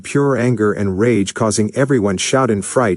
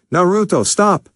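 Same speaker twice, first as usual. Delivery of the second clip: panicked shout; 10 semitones higher than usual. A narrator's reading. Linda screaming at Naruto to stop, very high. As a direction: scream his name to stop him. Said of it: "Linda shouted".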